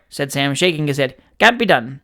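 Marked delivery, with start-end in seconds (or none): 1.4-2.0 whispered, firm refusal. Acted. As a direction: breathe the refusal under your voice. Sam refuses, voice drops.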